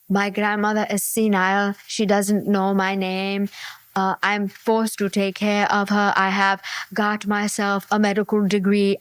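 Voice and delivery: low, monotone put-on sob story; imagined online scammer. Scammer explaining their sad life to Barry, put-on deadpan voice. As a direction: recite the scammer's excuses in a low, even voice.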